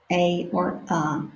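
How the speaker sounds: "a or a" as ay then uh, softly; two ways to say a. Shown as a demonstration. Teacher repeating both sounds of "a". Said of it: "you can use this pronunciation".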